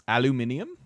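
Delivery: "Aluminium?" with five syllables, al-yoo-MIN-ee-um, rising; British pronunciation. Shown as a demonstration. Streamer trying the British "Aluminium?" with a rising question. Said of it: "That's the way the British say it".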